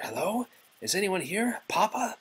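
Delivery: high, hesitant call into the dark castle; anxious calling. Acted. Belle calling into the empty castle, searching. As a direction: call out nervously for papa. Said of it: "Belle asked".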